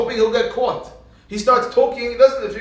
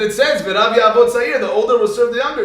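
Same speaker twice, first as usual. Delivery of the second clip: loud, higher, triumphant quoting; insistent child; 4 semitones higher, 7 dB louder than usual. Retold or imitated. Child proves a point to father, loud and insistent. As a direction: press the proof home loudly.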